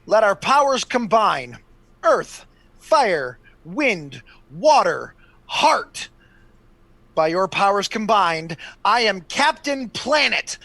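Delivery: Captain Planet call. Acted. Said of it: "I'm gonna go".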